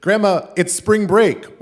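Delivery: high, loud, drawn-out words; shouting to be heard. Retold or imitated. Grandson explaining to deaf grandma, slow high shout. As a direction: holler it slowly for deaf ears.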